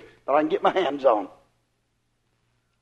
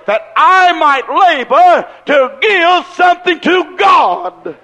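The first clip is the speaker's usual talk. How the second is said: fired-up resolve. Retold or imitated. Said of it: "you work on that job and you say".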